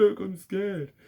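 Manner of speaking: high mocking timid voice; mock scared voice. Mocking people who admit fear, high put-on voice. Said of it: "some people go".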